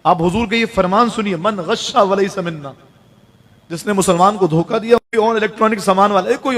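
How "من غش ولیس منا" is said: hadith recitation. Acted.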